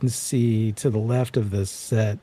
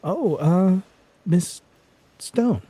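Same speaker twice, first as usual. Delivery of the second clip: higher, startled stammer; surprised recognition; 10 semitones higher, slower than usual. Acted. Doctor surprised to see the investigator, higher stammer. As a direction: caught off guard. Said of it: "And goes".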